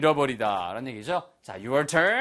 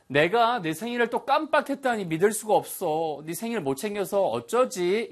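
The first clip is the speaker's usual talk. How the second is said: higher, lightly acted dismay; dismayed disbelief; 6 semitones higher than usual. Teacher acting out forgetting a birthday, dismayed disbelief. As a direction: play at disbelief over your own forgetfulness. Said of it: "이런 식의 느낌이라고".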